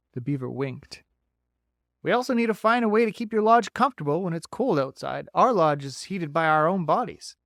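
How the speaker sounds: bright, folksy beaver. Acted.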